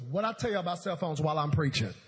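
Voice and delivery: quick, loud telling-off; mock scolding. Jesus scolds disciples about phones while preaching, mock telling-off. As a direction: scold the crowd briskly, played for laughs.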